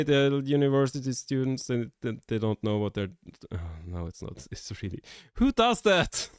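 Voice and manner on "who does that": high-pitched, loud squeal of disbelief; high squeaky disbelief. Real, not acted. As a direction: shriek it up high in mock horror. Rant peaks in disbelief.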